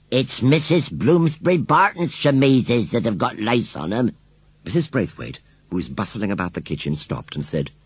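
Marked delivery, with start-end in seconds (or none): 0.1-4.1 higher, jerky flustered washerwoman voice; upset village washerwoman; agitated washerwoman. A narrator's reading. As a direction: blurt it out in short agitated jerks.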